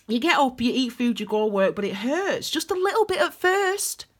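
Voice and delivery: spoken-word poem in short measured phrases; poem recital. Shown as a demonstration. Poet reciting their poem about daily hurt, performed delivery. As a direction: perform your own poem, lifting the last phrase. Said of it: "I'm gonna share that poem".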